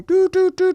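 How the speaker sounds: high, loud sing-song doo doo doo; mock alarm jingle. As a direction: chime it like a phone alert going off. Dad's phone alert imitated.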